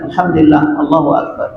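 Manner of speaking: a tired dad tossing off a blessing; offhand father reply. Retold or imitated.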